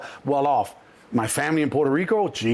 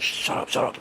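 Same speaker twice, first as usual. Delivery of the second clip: urgent hushed whisper; 4 dB quieter than usual. Retold or imitated. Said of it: "And I'm like".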